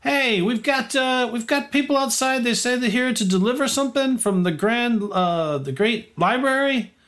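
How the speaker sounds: guard calling up high to the tower; high call up the stairs. Acted. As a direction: shout it up to someone upstairs. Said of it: "He goes".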